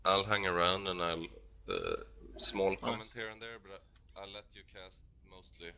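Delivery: tired, strained hoarse voice; losing his voice, worn out. Real, not acted. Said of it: "I'm really losing my voice here".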